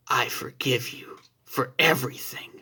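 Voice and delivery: soft unvoiced whisper; hushed forgiveness whispered close; whisper in the ear. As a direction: breathe it into his ear. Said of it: "says into his ear".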